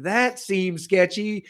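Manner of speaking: drawn-out, doubtful, lightly mocking; slow skeptical aside. Telling the IRS clerk his doubts, slow and skeptical. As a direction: stretch it out, unconvinced. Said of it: "I'm like".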